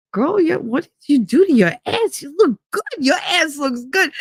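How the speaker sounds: put-on high, hyped-up girlfriend compliment; gushing flattery. Walking in to rescue him by flattering her, gushing. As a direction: pile on the praise in a high, lively voice. Hyping up a friend after her scolding.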